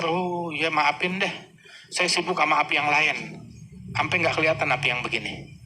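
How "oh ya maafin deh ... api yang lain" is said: amused apology. Retold or imitated. Imam answering apologetically.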